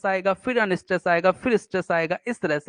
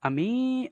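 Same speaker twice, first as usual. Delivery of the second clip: अमे- with मे held long and higher; stress on मे; 5 semitones higher, 5 dB quieter, much slower than usual. Shown as a demonstration. Teacher isolating the stressed vowel for students, stress on मे in अमे-. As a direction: lift and stretch the मे in अमे-. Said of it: "ए की मात्रा आ रही है ना".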